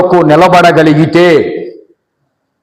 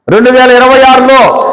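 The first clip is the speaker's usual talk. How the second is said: call to repeat; 6 semitones higher than usual. Shown as a demonstration. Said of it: "ఎట్టనండి అందరూ ఒకసారి".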